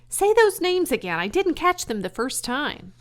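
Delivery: put-on high, loud, eager young pig voice; eager pig Wilbur. Wilbur begging Charlotte to repeat her leg names, eager. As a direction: squeal it out like an excited piglet.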